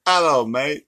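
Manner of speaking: hammed-up Aussie greeting; Australian accent. Shown as a demonstration. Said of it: "I was transferring it to Australian".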